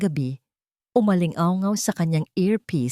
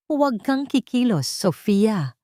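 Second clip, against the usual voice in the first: scared; 5 semitones higher, slower than usual. A narrator's reading. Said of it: "halatang takot".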